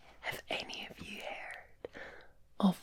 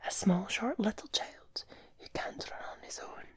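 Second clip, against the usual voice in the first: rhythmic bedtime recitation in a whisper; whispered nursery rhyme. Pretend. Reading a Scottish bedtime rhyme to the viewer, whispered.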